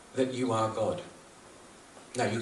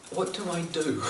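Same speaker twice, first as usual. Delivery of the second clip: imitated exasperation, pitched higher; a mock-helpless plea, voice raised in pitch; mild retold frustration; 5 semitones higher than usual. Swami despairs of convincing his followers, mildly frustrated. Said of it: "you could hear the frustration".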